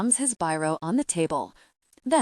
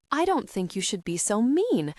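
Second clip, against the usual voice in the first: outburst; 2 semitones higher than usual. Acted. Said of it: "says Suze in a burst".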